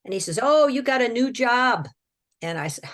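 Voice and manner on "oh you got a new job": lightly voiced demon, higher and louder; a hint of a gloating monster; demon's taunt. Demon assigns new job.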